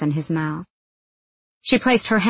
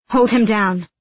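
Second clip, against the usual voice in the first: urgent order; 4 semitones higher, 5 dB louder than usual. Acted. Urgent order during struggle.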